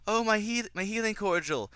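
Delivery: high, exaggerated gushing mimicry; mock Lucy line. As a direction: parody a film character announcing the obvious. Mocks spoon-fed dialogue in the film.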